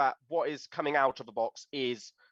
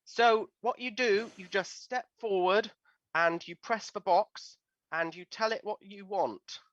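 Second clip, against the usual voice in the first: put-on child; 6 semitones higher than usual. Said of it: "the children of there".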